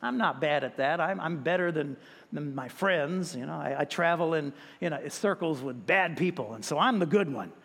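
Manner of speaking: low, offhand self-excusing; casual self-justification. Acted. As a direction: shrug it off as doing fine. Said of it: "things that we're probably saying".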